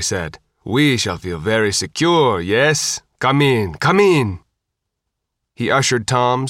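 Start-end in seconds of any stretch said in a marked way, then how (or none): 0.6-4.4 lightly voiced Sicilian host; a hint of a Sicilian accent. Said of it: "with a thick Sicilian accent".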